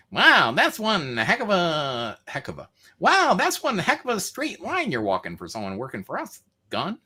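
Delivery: put-on a mob boss in a lightly done Mexican accent. Mob boss needling the courier, lightly done Mexican accent. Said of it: "It's my Mexican friend".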